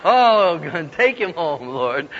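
hammed-up prayer, falling away at the end; mock desperate prayer. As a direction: imitate a mother pleading to heaven. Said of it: "almost on the floor in prayer".

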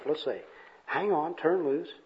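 soft puzzled mutter; quiet, bemused self-talk; mumbling to himself. Acted. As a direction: mull it over under your breath. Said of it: "he's mumbling to himself".

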